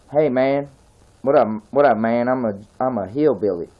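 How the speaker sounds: put-on street-cool hillbilly accent; hillbilly accent, casual street greeting. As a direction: play a laid-back hillbilly. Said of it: "Some kinda cool hillbilly on the street".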